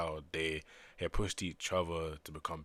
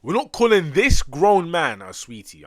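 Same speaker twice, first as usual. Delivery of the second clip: much higher and louder, slow, stretching calling; incredulous yell; 10 semitones higher, 18 dB louder than usual. Real, not acted. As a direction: yell it out in disbelief, drawn out. Escalating protest at game character.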